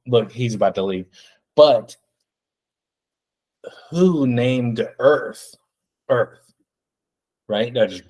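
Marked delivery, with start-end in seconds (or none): 1.6-6.5 dragged out, slow pondering; slow mock-profound TikToker; slow mock musing. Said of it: "terrible impersonation of it".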